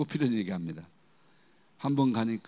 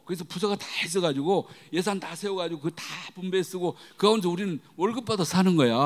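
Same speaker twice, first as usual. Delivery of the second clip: startled protest; 4 semitones higher, 3 dB louder than usual. Retold or imitated. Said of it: "우리 딸이 놀래가지고".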